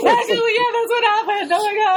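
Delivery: high, whiny weepy admission; mock crying confession. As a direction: blubber it out like a crybaby. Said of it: "crying and he's like".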